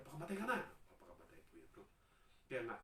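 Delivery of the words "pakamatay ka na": demon's command. Acted. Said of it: "Kaya pag diniktan siya".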